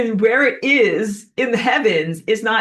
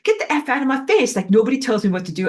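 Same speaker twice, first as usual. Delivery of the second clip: a punk snapping back, pitched higher; brushing everyone off; mock punk snarl; 6 semitones higher, faster than usual. Punk rocker to anyone in charge, mock defiant. Punks telling others off.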